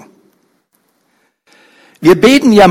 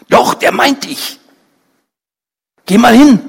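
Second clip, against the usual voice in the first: urging neighbour; 6 semitones higher than usual. A narrator's reading. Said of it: "ihre Nachbarin stößt sie an".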